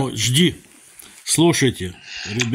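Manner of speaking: loud, firm call to the room. Real, not acted. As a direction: raise the voice to get attention. Commanding dog, then addressing viewers.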